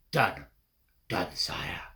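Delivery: a scurrying rat reporting back; sneaky rat. Acted. Rat reports to his master.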